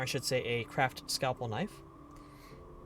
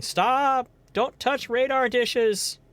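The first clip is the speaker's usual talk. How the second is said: a high, loud mock yell, the rest dragged slow; mock cat yell; 10 semitones higher, 6 dB louder, much slower than usual. Streamer voices the grumpy cat yelling about its ears, loud and high. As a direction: shriek it like an offended cat. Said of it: "yelling at you and going".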